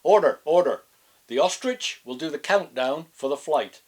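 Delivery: loud raven call; loud raven shouting order. Acted. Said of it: "the raven had to call order".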